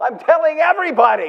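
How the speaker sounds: put-on accent with Yiddish lilt. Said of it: "you do the Jewish accent better than I do".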